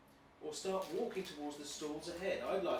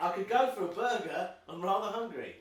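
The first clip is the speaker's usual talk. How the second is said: hammy stage actor; 4 dB louder than usual. Acted. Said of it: "Why are you speaking like an actor?".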